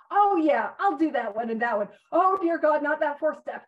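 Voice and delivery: eager start turning to loud mock dread; playful exclamation of second thoughts; mock balking. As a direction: jump in keenly, then balk in alarm. Voices balking at the steps.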